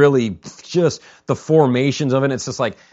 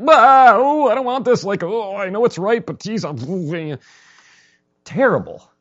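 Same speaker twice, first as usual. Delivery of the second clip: mock dread; 7 semitones higher, 7 dB louder than usual. Voicing frightened worshipper at Sinai.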